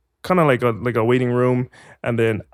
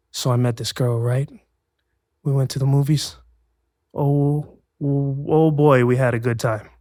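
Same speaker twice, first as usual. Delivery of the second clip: measured audition read, retold; simple first read. Actor reading four lines for an agent, simple measured delivery. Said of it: "something simple like that".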